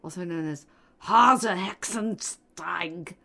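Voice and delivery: slow whispered movie villain. Acted. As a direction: hiss it out like a cartoon villain. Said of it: "You sound like a villain from, like, Despicable Me".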